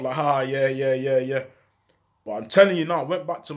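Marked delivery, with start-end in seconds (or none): 0.1-1.4 laughing it off. Retold or imitated. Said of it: "we just laughed it off".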